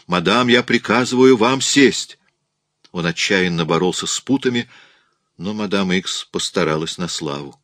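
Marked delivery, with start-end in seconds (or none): 0.1-2.2 loud, higher, insistent order; urgent command. A narrator's reading. Raoul commands madame to sit, urgent shout. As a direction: order her forcefully and desperately. Alarmed man orders her down.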